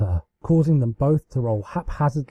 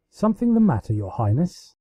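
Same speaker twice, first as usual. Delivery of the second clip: confused; 4 semitones higher than usual. Acted. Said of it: "he asked in confusion".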